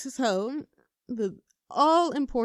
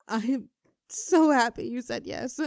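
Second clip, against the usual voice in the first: happy gush; 3 semitones higher, 5 dB louder than usual. Acted. Overjoyed after the yes.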